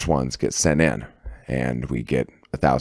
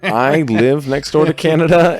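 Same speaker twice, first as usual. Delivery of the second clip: mock high voice; 12 semitones higher, 5 dB louder than usual. Mocking cohost's accent claim.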